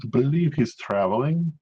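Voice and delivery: put-on a mix of accents on "I believe he's traveling". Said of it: "twenty different accents into this".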